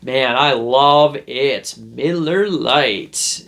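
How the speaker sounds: overselling to the cashier, slowing on the end; hammed-up casual beer lover; overcompensating show-off. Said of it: "putting on a show here".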